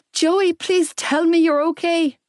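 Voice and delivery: high, fearful plea; voice cracking. A narrator's reading. Young woman clinging to his baby brother, pleading shakily. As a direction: beg him for an answer, close to breaking. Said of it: "My voice cracked".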